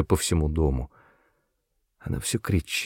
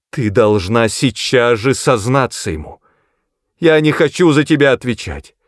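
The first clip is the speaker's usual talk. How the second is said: high, loud, frantic shout; wild yelling; 4 semitones higher, 5 dB louder than usual. A narrator's reading. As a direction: scream it at her daughter. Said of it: "дико закричала".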